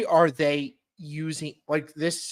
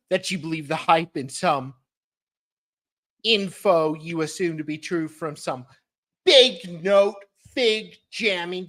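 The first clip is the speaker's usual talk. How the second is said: dramatic reading; 3 semitones higher, 4 dB louder than usual. Acted. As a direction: lean into each ridiculous label. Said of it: "let me start over".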